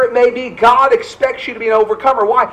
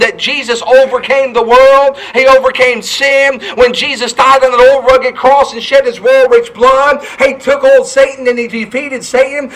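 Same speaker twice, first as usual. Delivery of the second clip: fervent preaching; 2 semitones higher than usual. Acted. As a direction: rise into a revival preacher's proclamation. Preacher building to full force.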